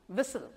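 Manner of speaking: व्हिसल softly again without the t; quiet व्हिसल, no t sound; correct whistle. Shown as a demonstration. Teacher repeating the right व्हिसल to the class. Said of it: "व्हिस्टल नहीं बोलेंगे".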